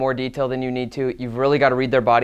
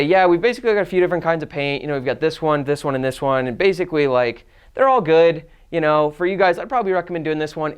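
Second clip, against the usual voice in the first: higher, quick and breezy sales talk; upbeat salesman pitch; 4 semitones higher than usual. Shown as a demonstration. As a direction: pitch it light and friendly to an I. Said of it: "you're gonna just tell them what to do".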